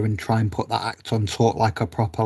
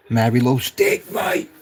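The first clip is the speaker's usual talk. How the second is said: tag only. Acted. Jokey shout to chat.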